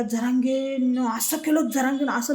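slow, mocking imitation of her ranting; mocking the opponent. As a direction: parrot her fuming complaint. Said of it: "लाल बबुला होताय ना". (चिडलेल्या विरोधकाची हलकी नक्कल)

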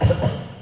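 a quick single cough; a light, short demo cough; demonstration cough. Shown as a demonstration. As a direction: cough briefly to illustrate. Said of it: "the thing that you do when you cough".

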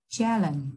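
"challenge" stressed on "chal"; teacher's demo of CHAL-lenge; first-syllable stress. Shown as a demonstration. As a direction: hit the first syllable of "challenge", let the second drop. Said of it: "trọng âm rơi vào âm tiết thứ nhất".

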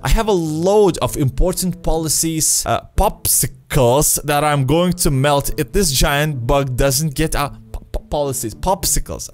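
frantic little merchant voice; panicked merchant. Acted. Merchant cries for help.

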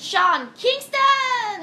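high, loud drawn-out name; hyped headliner announcement. Real, not acted. DJ revealing the festival's international artist, hyped announcement. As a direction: belt out the star's name like a stage announcer.

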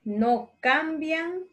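fuertemente drawn out slowly, word by word; slow dictation. Shown as a demonstration. Teacher dictating slowly to children copying notes. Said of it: "Les puedo ir leyendo despacito".

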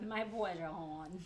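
imitated Baltimore accent, hun as horn. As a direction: echo the Baltimore drawl. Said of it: "they don't say hun, they say horn".

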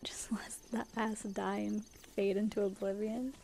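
laughing, unvoiced whisper; breathy muttered aside with a laugh. Real, not acted. Muttered aside about Skyrim.

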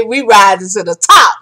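proud and ringing, a rising finish; triumphant declaration. Real, not acted. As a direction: announce the victory to the team. Declaring triumph to her team.

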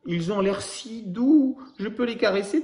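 put-on high, slow, wistful childlike asking; asking baby koala. Baby koala asks to pet the bears, in a high slow pleading voice. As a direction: ask sweetly like a little child. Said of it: "demande bébé koala".

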